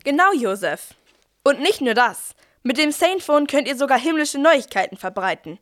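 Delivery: cheery sales pitch; ad read. Acted. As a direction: pitch the product to the stable. Ad pitch continues. (fröhliche Werbesprache)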